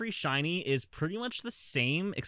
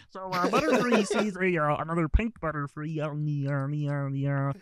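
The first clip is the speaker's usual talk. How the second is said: Kermit the Frog voice; 4 dB louder than usual. Acted. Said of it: "in the Kermit voice".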